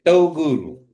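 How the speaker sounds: "togul" said loud with a stopped T, tongue on teeth; emphatic "togul" with the T stop; slow exaggerated speech modeling. Shown as a demonstration. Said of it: "And you say".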